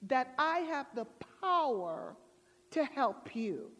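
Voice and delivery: lightly voiced heavenly questioner; measured question from above. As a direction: ask it solemnly, with spaced-out phrases. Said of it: "the voice came back and said".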